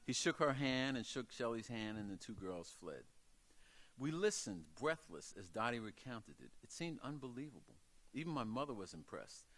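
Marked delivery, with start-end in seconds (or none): none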